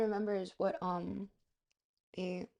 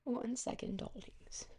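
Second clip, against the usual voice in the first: whispered aside; 5 dB quieter, slower than usual. Real, not acted. Stepping away to look something up.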